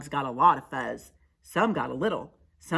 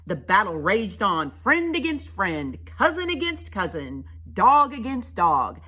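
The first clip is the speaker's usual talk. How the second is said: raised, emphatic listing; dramatic story narration; 4 semitones higher, 6 dB louder than usual. A narrator's reading. Narrator telling how friend fought friend, dramatic. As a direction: build the battle beat by beat.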